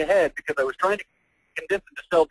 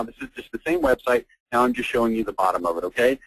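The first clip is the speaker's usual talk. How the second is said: usual speaking voice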